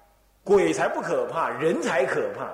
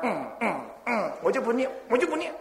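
stubborn refusal; 6 semitones higher, faster than usual. Retold or imitated. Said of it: "他说".

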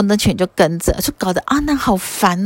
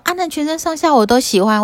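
put-on higher, adoring girlish voice; a light hint of a smitten girl gushing; 8 semitones higher than usual. Matangi girl tells the Buddha she loves all of Ananda, gushing.

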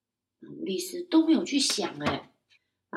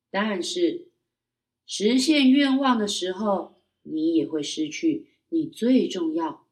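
lightly voiced magic lake; 2 semitones lower, 4 dB louder, slower than usual.

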